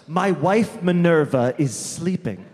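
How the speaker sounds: slow, mock-paranoid imitation; lightly acted paranoid doctor, drawn out; really paranoid. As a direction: answer the door like you have a secret. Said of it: "Like, really paranoid".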